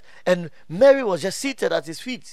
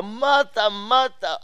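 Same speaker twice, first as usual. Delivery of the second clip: "Martha, Martha" raised high, each name separate; emphatic name-calling; 4 semitones higher, slower than usual. Retold or imitated. Jesus getting Martha's attention, high and emphatic. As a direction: lean hard on each "Martha" in a raised pitch. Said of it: "put an emphasis on something".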